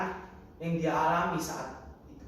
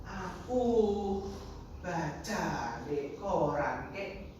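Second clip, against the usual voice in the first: timid grandchild; 2 semitones higher, much slower than usual. Acted. Grandchild explains to angry grandfather, timidly. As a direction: answer meekly, in small pieces.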